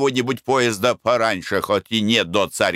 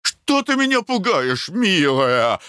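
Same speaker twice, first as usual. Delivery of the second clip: frightened husband, voice shooting far higher; panicked cry; 12 semitones higher, slower than usual. A narrator's reading. Husband cries to his wife in despair, panicked and very high. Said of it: "закричал муж".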